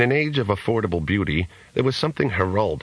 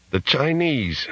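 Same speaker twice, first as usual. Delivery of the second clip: put-on drunken bellow; 8 semitones higher than usual. A narrator's reading. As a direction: bellow it across the bar like a drunk. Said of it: "bellowed a drunken Australian".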